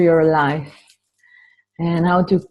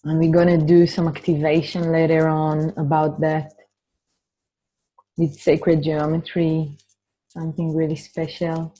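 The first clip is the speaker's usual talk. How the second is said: measured opening blessing, leaving space to breathe; guided meditation. Real, not acted. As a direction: gently guide the group inward, unhurried. Leads an opening meditation and dedication.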